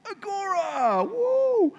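high sing-out with a whoop; mock-grand, very high cheer; playful fanfare. Preacher unveils the Greek word to the church, playful fanfare.

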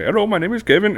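high sing-song telemarketer greeting; playful high telemarketer impression. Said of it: "and be like".

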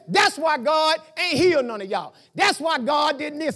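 preacher voicing Jesus's insult to the townspeople, shouted; Jesus's retort. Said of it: "He says".

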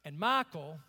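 low, soft sermon narration; quiet storytelling. Real, not acted. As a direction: tell it softly, almost confiding.

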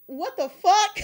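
loud, high incredulous outburst with laughter; shocked reaction. Retold or imitated. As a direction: imitate stunned viewers, cracking up. Acts out people's shocked reaction to video.

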